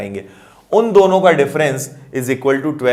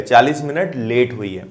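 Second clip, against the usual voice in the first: लेट hit firmly, falling tune at the end; stress on late; 4 semitones lower than usual. Shown as a demonstration. Teacher restating the condition, stressing लेट. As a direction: press on लेट, then let the line drop. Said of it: "क्या बोला है".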